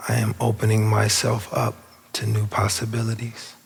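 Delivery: unhurried meditation guide with long pauses; spacious, measured affirmation leading; guided meditation. Real, not acted. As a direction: guide them inward, phrase by phrase. Leads the affirmation.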